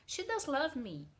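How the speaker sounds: "does" stressed, falling at the end. Shown as a demonstration. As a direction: insist on "does". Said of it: "Tu enfatiza aquela situação".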